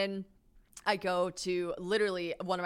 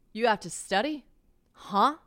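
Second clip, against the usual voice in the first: mock disbelief, pushed louder; incredulous reaction; 2 semitones higher, 6 dB louder than usual. Woman reacting to guest who must study, louder incredulity. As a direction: question him in acted bafflement. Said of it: "I react like this to him".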